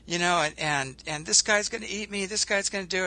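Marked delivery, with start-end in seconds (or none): 1.2-3.1 raised-pitch panicky rabbit; lightly acted rabbit in alarm; mock screaming. Storyteller voices a rabbit about to be eaten, mock screaming. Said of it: "it's just screaming".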